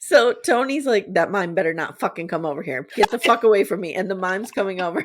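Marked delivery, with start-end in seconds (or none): 1.1-4.0 mock frantic, spooked, fast panicky outburst. Retelling how a man reacted to a mime coming over, imitating someone freaking out. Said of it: "He's just like freaking out".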